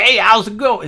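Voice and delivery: loud, high hammed-up Southern accent. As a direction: imitate Boston locals with a fake Southern twang. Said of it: "why is this accent everywhere".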